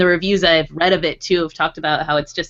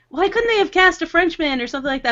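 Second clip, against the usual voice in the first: mock exasperated; 10 semitones higher than usual. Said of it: "you're like".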